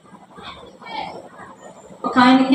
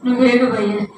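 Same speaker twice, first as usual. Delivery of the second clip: pleading animals. Retold or imitated. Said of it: "బ్రతిమలాడుకుంటున్నాయంట".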